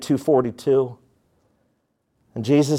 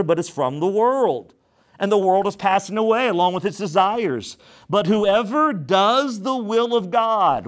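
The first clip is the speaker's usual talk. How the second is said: raised, measured preaching of the verse; scripture reading; 3 semitones higher than usual. Acted. Pastor reading scripture to the church, raised and measured. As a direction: read the Word out to the congregation.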